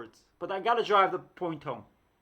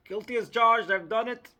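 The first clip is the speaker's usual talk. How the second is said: loud, admitting it outright; loud confession; 4 semitones higher, 8 dB louder than usual. Real, not acted. Admitting to viewers she slanders, loud confession. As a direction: own it loudly.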